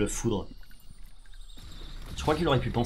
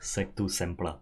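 put-on slow, low Russian-accented incantation; 5 semitones lower, 6 dB quieter, much slower than usual. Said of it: "ils le disent tous avec un accent russe".

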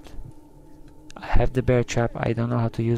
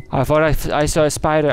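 ordinary talk

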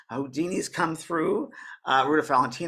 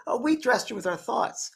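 higher imitated woman's voice; explaining sister; 9 semitones higher than usual. Sister explaining things to the newly passed lady, higher put-on voice. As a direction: play the sister, pitched up. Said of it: "And her sister said".

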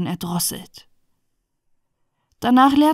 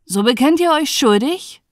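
higher, louder questioning; raised voice of an interrogating judge; 5 semitones higher, 5 dB louder than usual. Acted. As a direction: demand a confession as a judge. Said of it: "sprach der Richter".

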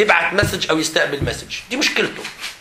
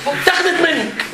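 heated appeal; 3 semitones higher than usual. Real, not acted. Teacher heated appeal to boys.

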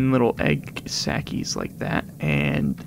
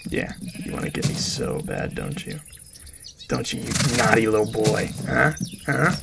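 taunting; 3 semitones lower than usual. Acted. Gamer teasing a mob, mockingly. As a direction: needle the naughty mob.

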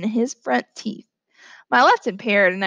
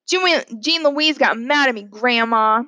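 calling out; 3 dB louder, slower than usual. Acted. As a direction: call to Grandma to tell on someone. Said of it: "called Francis".

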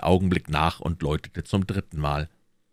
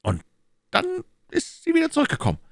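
higher, pressing questions as the Cardinal; Cardinal questioning; faster than usual. Acted. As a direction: interrogate his agent coolly. (der Kardinal, verhörend)

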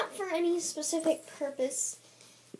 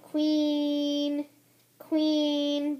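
Sunny voice; much slower than usual. Acted. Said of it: "Sunny says".

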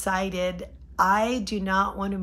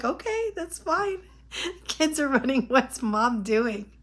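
mock husband, pitched up high, amused; husband's voice; 4 semitones higher than usual. Husband watching wife walk off, high amused mock voice. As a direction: lightly imitate the laughing husband, higher.

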